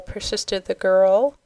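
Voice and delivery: ordinary delivery, nothing marked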